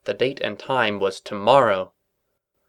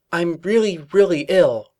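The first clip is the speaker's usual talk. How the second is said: fake ill; 7 semitones higher, 4 dB louder than usual. A narrator's reading. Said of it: "Twilight faking illness".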